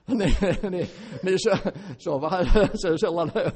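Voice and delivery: laughing while talking. Real, not acted. Laughs at own rambling.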